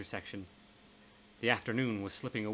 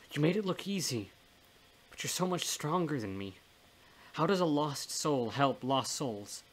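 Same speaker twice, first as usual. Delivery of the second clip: higher-pitched, despairing plea; pained self-doubt; 4 semitones higher than usual. Acted. Man doubts he can replace his stronger friend, pained self-doubt. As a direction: confess doubt, pitch lifted.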